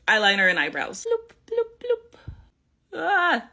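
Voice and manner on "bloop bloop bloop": high playful bloop, bloop; high bloop sounds. Pretend. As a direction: chirp it like a cartoon. Playful sound while dotting makeup.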